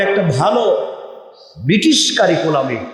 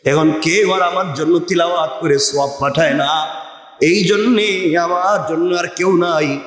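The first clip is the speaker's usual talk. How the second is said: sermon cadence. Acted. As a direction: preach it in rhythmic, rolling phrases. Preaches in measured cadence.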